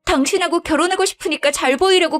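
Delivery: pleading wife. Acted. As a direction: stammer out a flustered excuse. Daughter-in-law excuses herself. (당황해서 변명하는 며느리 목소리)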